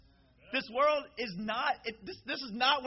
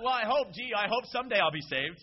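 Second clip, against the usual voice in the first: doubtful hoping; 6 dB louder than usual. Shown as a demonstration. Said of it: "Not hopefully".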